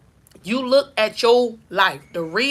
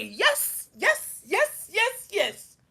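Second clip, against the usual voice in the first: voice of God; 7 semitones higher, 6 dB quieter, much slower than usual. Acted. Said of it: "God gonna say".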